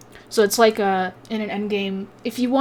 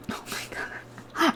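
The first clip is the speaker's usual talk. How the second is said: laughing; 9 semitones higher, 7 dB quieter, much slower than usual. Real, not acted. Laughing at his own misreading.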